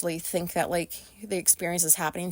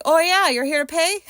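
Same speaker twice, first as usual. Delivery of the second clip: high, louder, chirpy knowing receptionist; 8 semitones higher, 7 dB louder than usual. Retold or imitated. Receptionist greeting the wife who came to pay, high and knowing. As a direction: tease it like you already know why she came.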